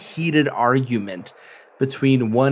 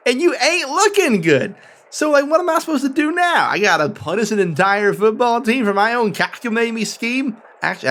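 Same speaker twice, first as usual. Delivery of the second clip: higher, pleading, frustrated warden voice; exasperated warden; 6 semitones higher than usual. Acted. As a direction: whine it out as a cornered warden.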